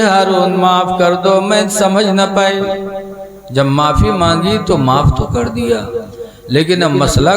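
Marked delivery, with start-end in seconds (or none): 0.0-2.6 higher, begging plea; tearful pleading. Acted. Zubaida begging Haroon to take back the divorce, pleading. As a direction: beg forgiveness with folded hands. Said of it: "Zubaida उठी और रोने लगी".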